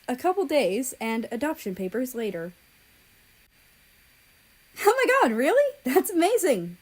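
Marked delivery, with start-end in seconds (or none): 4.8-6.8 very high, much louder delighted shriek; overjoyed boyfriend voice; exclaiming. A narrator's reading. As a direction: explode with happiness for him. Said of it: "America exclaimed".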